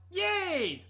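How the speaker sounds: high, loud forced cheer; shout. Retold or imitated. Driving home alone, shouting yay to feel happy. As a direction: belt it out to force some joy. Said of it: "I just yelled".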